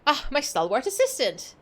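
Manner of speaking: lightly put-on British gentleman accent; grand British-accented gentleman, a touch hammed-up; improvised British accent. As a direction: play a pompous schemer in a British accent. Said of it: "whatever accent feels like coming out".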